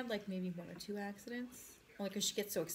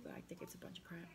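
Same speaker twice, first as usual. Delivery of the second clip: whispering; 2 semitones lower, 8 dB quieter than usual. Real, not acted. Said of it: "I have to whisper".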